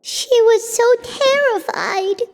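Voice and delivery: high, slow and pained; distressed sympathy. Acted. Companion reacting to a dead woman's last words, distressed.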